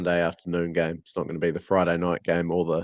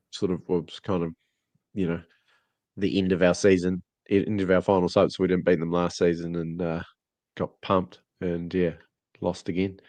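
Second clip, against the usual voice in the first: blocked nose, nasal voice; stuffy nasal cold voice. Real, not acted. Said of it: "Apologies for my nasally voice".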